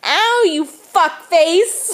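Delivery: mock pained yell. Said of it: "it should have been".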